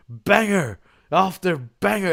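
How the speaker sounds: slow, drawn-out commentator catchphrase; Corey Graves. Retold or imitated. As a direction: imitate a video-game wrestling commentator, stretching the words. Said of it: "Corey Graves on the game starts going".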